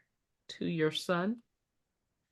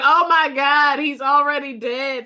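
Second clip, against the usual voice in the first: mock panicked plea; 5 semitones higher, 6 dB louder than usual. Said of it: "I was like".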